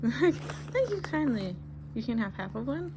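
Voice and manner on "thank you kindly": slow, laughing, high thanks. Real, not acted. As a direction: laugh through the thank you. Laughing at dog's paw.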